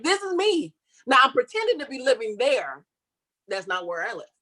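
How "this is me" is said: high, proud "look at me"; proud show-off. Retold or imitated. Showing the leasing office her magazine photo, high and proud. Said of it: "I'm going down to the leasing office like".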